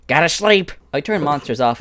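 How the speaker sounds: loud, high-pitched character shout; full-volume, high, hammed-up impression; Vito impression. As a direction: push the character voice up high and belt it. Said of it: "How's my Vito's impression?".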